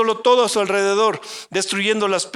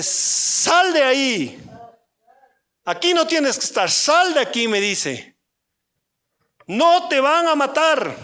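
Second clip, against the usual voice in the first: slow, much higher, firm order; God's command; 6 semitones higher, slower than usual. Acted. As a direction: order him out sharply. (Dios le ordena salir de la cueva, voz alta y firme)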